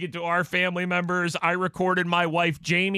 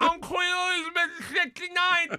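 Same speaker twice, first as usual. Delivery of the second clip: imitating groggy daughter; 10 semitones higher than usual.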